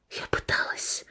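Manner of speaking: breathy whispered reply. Acted. Beaten woman answering her attacker in a whisper. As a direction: barely voice it. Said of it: "прошептала я".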